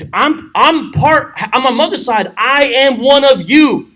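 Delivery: slow, drawn-out pitch to his kin; a lightly voiced politician claiming kinship; smooth-talking Abimelech. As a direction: slowly win them over as one of their own. Abimelech wooing his mother's relatives.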